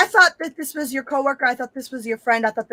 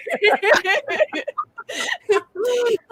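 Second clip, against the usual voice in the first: high wheezing laugh; 10 semitones higher than usual. Real, not acted. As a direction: laugh at the slip. Laughs at forgetting name.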